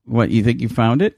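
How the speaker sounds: sharp, confronting question; aggressive. Real, not acted. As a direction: challenge them hard. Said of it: "That sounded really aggressive".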